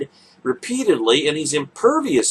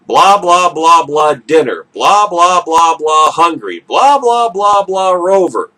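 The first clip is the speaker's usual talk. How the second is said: mock blah-blah; 6 dB louder than usual. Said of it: "what your dog hears".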